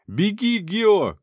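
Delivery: high, loud warning yell; shout. A narrator's reading. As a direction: scream at him to run. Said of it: "крикнул я".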